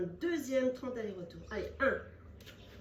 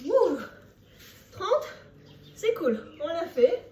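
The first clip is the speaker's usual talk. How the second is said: cheering; 6 semitones higher, 8 dB louder, slower than usual. Real, not acted. Finishing hard set, cheering.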